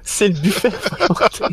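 high unvoiced whisper. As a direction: whisper it like a secret. GM whispers buffet line.

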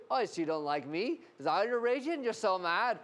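needling Irishman, lightly put on; mock-Irish accusing tease; imitated Irish accent. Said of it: "I was in Ireland, and the guy kept going".

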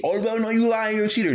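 high, whiny accuser; mocking a girl calling him a cheater; mock accusing voice. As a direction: squeak out the accusation.

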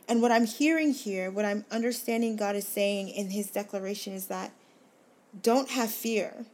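preaching. Acted. Speaker preaching to listeners about God's declaration, impassioned. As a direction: lift it up like a sermon's climax. Preaches what the passage means.

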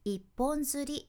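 一本釣り level and even; 一本釣り with no pitch rise; flat pitch. Shown as a demonstration. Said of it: "やなくって".

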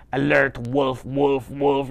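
a hint of mechanical alarm; robot voice. Robot alerting the boy to the wolf, light robot voice. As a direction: repeat it like a simple robot warning. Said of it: "in a robot voice like this".

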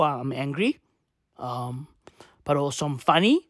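low, subdued mock introduction; imitated Irish person. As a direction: say it low and understated, posing as angry. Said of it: "a part of your personality".

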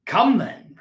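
light cheerful opener; mild playful cheer; gaily. A narrator's reading. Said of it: "returned the nephew gaily".

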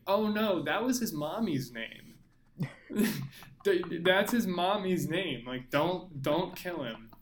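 lightly acted pleading woman; mildly hammed-up mock distress; Lois Lane. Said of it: "Lois Lane comes in, and she's like".

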